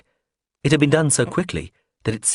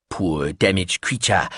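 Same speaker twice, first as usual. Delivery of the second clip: slow murmured repetition; slow low murmur; 3 semitones lower, slower than usual. Acted. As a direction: mumble it slowly to yourself. Biscuitine repeating phrase.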